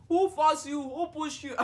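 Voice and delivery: high, loud mock scolding questions; imitating mom's sharp questioning; scolding mother. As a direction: demand answers like an indignant mother.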